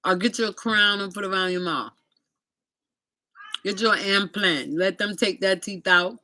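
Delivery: a hint of a Jamaican man giving advice; Jamaican guy advising. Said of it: "He said".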